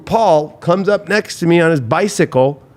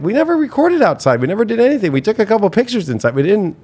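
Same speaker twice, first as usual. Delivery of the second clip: higher, pleading denial; retold frantic protest; 5 semitones higher than usual. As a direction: insist you did nothing wrong, voice pitched up. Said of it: "I'm like".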